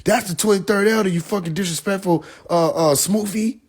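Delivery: high mock rant at the elder; high outraged mock shout. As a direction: go up high in disbelief. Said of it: "He said".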